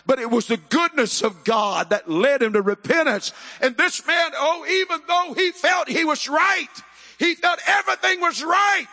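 high, ringing sermon cry; impassioned preaching. Real, not acted. Preaches at full force.

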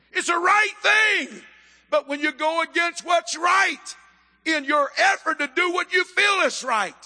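high, ringing sermon cry; impassioned preaching. Real, not acted. Preaches at full force.

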